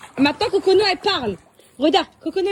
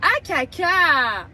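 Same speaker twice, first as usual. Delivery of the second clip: slow modelling; 4 semitones higher, much slower than usual. Shown as a demonstration. Mother repeats word for toddler.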